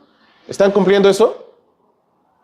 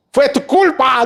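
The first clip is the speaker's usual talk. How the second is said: mock accusation; 10 semitones higher, slower than usual. El hombre culpa a la mujer.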